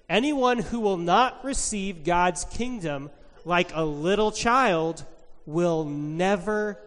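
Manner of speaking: put-on slow, deliberate read-aloud for children; Bible story reading. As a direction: read scripture slowly, leaning on key words.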